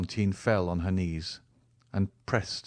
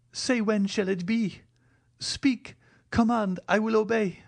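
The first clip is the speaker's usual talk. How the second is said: higher, resolved and earnest; firm young woman; 10 semitones higher than usual. A narrator's reading. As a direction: speak with regained firmness as the heroine. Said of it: "resuming her firmness".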